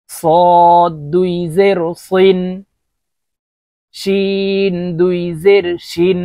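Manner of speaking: থা lisped, সিন thin, সদ heavy and rounded, শিন as sh; four distinct sibilants. Shown as a demonstration. Teacher showing four letters, slow distinct থা, সিন, সদ, শিন. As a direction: draw out থা, সিন, সদ, শিন, each sound kept apart. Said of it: "চারটি হরফের উচ্চারণ চারভাবে হবে".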